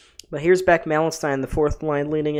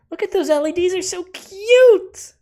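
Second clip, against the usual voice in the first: cute gush; 9 dB louder than usual. Real, not acted. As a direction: squeal over the lights like they're puppies. Gushing over arena LED lights.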